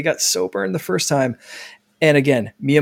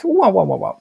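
mock wow; 5 semitones higher, 3 dB louder than usual. Mock excited reaction.

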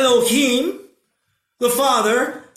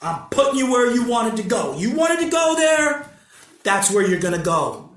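dark lord; 2 semitones lower than usual. Acted. God declaring judgment.

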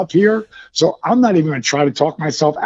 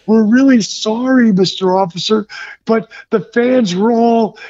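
higher-pitched, imitated meek apology; Big Show; 4 semitones higher than usual. Passenger apologizing to angry officer, mock meekness. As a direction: plead sheepishly with the officer.

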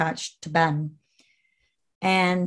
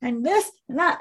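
retold hysterical yelling, pitched way up; retold screaming; 8 semitones higher than usual. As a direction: scream it out at the end of your rope. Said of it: "screaming at the top of my lungs".

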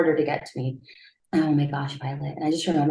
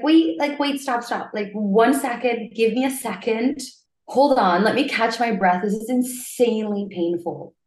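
re-enacted plea to stop, pitched up; mildly urgent, higher-pitched begging; retold pleading; 4 semitones higher than usual. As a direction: plead for a moment through pain, lightly acted. Acts out begging staff to stop.

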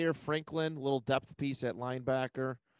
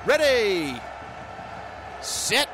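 much louder, higher yelled cadence, breaking into a curse; shouted snap count; 7 semitones higher, 7 dB louder, much slower than usual. Acted. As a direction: bark the snap count, then blow up in rage. Snap count, then cursing.

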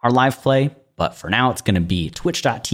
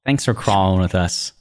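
ordinary talk, nothing marked

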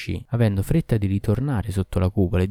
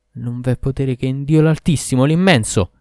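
disharmonic Moorish voice; 5 semitones higher, 5 dB louder than usual. A narrator's reading. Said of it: "disarmonicamente per imitare la parlata dei Mori".

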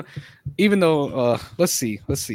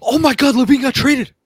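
fake shocked news; 7 semitones higher, 6 dB louder than usual. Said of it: "the way you scared me".

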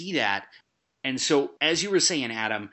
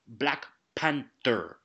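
Black Panther in a lightly put-on African accent, drawn out; imitated slipping accent; slower than usual. Critic mocking an actor's slipping accent, lightly imitated African accent. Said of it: "his accent slipped so many times and changed".

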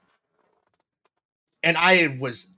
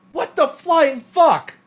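shocked inner thought; 11 semitones higher, 4 dB louder, slower than usual. Retold or imitated. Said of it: "I'm like".

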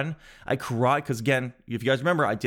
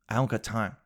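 cool hero line; 4 semitones lower, 4 dB quieter than usual. Pretend. Comic playing himself as a low-voiced movie hero. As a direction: lower and softer, deadpan action-hero.

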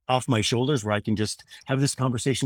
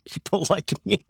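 laughing emphasis; 8 semitones higher than usual. Real, not acted.

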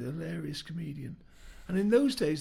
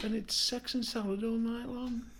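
high, loud northern bloke telling his news; cheery ghost uncle; 6 semitones higher, 4 dB louder than usual. Acted. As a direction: deliver it chirpy and proud. Arthur answering in joke.

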